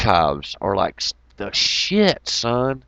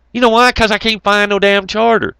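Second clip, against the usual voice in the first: mock loud retort; 9 semitones higher, 4 dB louder than usual. Mock dialogue continues.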